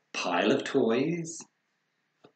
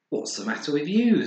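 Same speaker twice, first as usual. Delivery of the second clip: dad's voice; 7 semitones higher, 8 dB louder than usual. Acted. Dad voiced in story.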